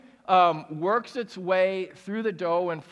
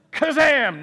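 1 magic kazam; 6 semitones higher, 7 dB louder than usual. Pretend. Magic miracle sound effect again.

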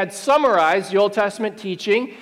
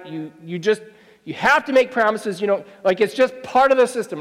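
ordinary talk

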